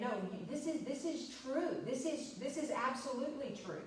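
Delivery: he won't be doubted on this; emphatic demanding tone. Retold or imitated. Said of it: "emphatic, almost demanding kind of tone".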